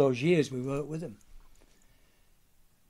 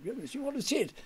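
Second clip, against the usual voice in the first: quoting Ronnie; 6 semitones higher than usual. Retold or imitated. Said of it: "he said".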